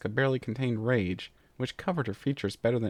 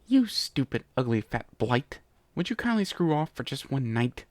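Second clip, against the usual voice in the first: angry demand. Acted. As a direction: explode at him, then demand. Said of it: "Chrysalis demanded".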